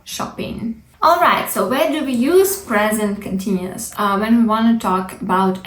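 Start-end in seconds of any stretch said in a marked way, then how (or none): 0.0-0.8 whispering shopping quietly; whispered shopping. Shown as a demonstration. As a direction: breathe out shopping without voice. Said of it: "keep the pronunciation as it is".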